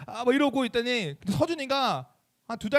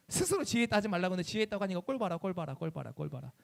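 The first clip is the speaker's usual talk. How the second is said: gloating scorn; 4 semitones lower than usual. Acted. Newcomer scolding the fallen senior, scornful and muttering away. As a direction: mockingly rub in someone's downfall.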